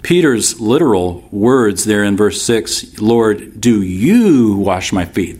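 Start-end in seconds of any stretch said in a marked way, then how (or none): 3.0-5.4 YOU drawn out and swooping up; incredulous weight on YOU; stress on YOU. Shown as a demonstration. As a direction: lean long and slow on the word you. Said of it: "That's the emphasis".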